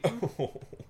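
soft, high coy chuckle; mock a coy little chuckle to oneself; small self-amused chuckle, put on. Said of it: "chuckling coyly".

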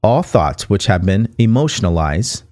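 measured, deliberate read from a book; book reading aloud. Acted. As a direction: read the passage out clearly for listeners.

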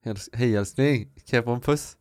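put-on a tentative, lightly done Gothenburg Swedish accent. Co-host dares him to do Gothenburg Swedish, shaky Gothenburg accent. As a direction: try out a Gothenburg accent for the podcast. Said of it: "På göteborgska?".

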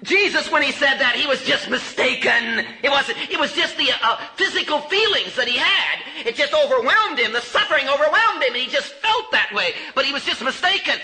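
mock the doubter lightly; preacher voicing a skeptic's excuse; imitating a skeptic. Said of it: "maybe you want to say".

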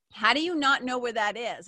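incredulous sister. Retold or imitated. Sister quizzing her about getting lost, mock incredulous. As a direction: imitate a sister's disbelieving question.

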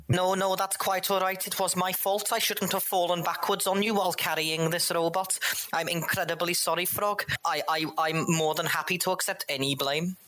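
high, overly polite apology; apologetic speaker. Acted. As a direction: grovel politely. The speaker's character voice.

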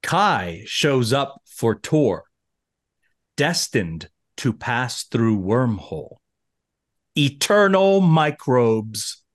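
very slow, measured poem reading; haiku recital. Acted. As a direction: read each line with long pauses. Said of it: "My haiku for Battle Lines".

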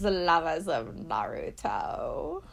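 slow breathy spooky whisper. Acted. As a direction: hush it like a cult secret. Spooky cult greeting to listeners.

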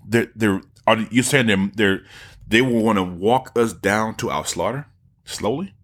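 slow, bewildered mock voice; lightly voiced, as if dawning realization; confused Rogan. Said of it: "He's like".

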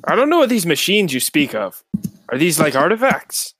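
badly attempted Irish lilt; shitty Irish accent. Mountain dweller asking about strange machines, bad Irish accent. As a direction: have a go at an Irish accent and miss. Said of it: "He's attempting a really shitty Irish accent".

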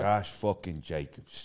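slow, drawn-out mock Italian take on "Josh fucking Jacobs". Shown as a demonstration. Friend asked to announce his pick in mock Italian, slow. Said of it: "can you say Josh Jacobs in a French way? Or Italian way?".

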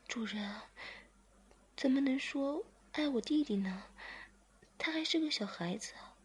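lifted, gently chiding voice. Acted. Zhiming leans on master and gently chides him.

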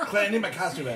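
laughing while talking; giggly, loud and high. Real, not acted. Joking about costume, laughing.

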